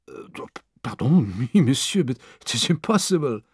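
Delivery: lightly voiced French manservant, polite; a hint of a deferential young Frenchman; French valet Passepartout. Valet answering his new master, lightly voiced polite Frenchman.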